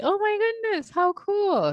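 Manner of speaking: high, thrilled exclamation; excited high gasp of joy; delighted. Real, not acted. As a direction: gush with real delight. Delighted reaction to international guest.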